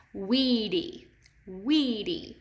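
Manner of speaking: Weedy stretched out, weight on WEE-; stress on first syllable. Shown as a demonstration. Teacher asks class to say Weedy, first syllable clearly stressed. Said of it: "We're accenting this first syllable".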